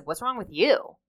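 mildly confrontational question; accusing tone. Shown as a demonstration. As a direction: demand it as a reproach, without softness. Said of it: "The tone of which somebody says something matters".

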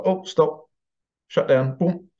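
high, abrupt imitation of an emergency shutdown; mock alarm. Brain's safety mechanism stops overload, in mock alarm.

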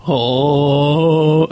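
imitated creepy, drawn-out "oh"; creepy deep "oh". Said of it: "creepy, deep voice".

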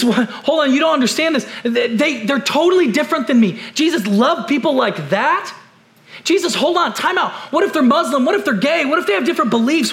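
an incredulous believer, rising in disbelief; questioning Jesus. Retold or imitated. A churchgoer pleading with Jesus, rising in disbelief. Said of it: "and we might say, Jesus".

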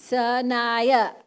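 Sanaya said slowly and firmly, syllable by syllable; correcting pronunciation. Retold or imitated. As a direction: demonstrate how to say Sanaya, spaced out. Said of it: "this is the way you pronounce it".

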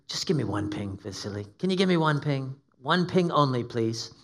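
lightly voiced Scottish-Russian commander; a hint of Sean Connery's Scottish-Russian accent; Scottish-Russian accent impression. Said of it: "a Scottish Russian accent".

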